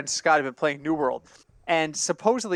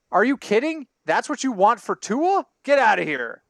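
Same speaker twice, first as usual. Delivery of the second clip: higher-pitched, acted-out disbelief; mock incredulity; 4 semitones higher than usual. GM on the phone rejecting a trade offer, mock incredulous. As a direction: play an incredulous brush-off.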